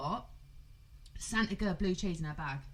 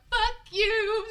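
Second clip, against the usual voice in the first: retold shout; 13 semitones higher, 9 dB louder than usual. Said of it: "I was like".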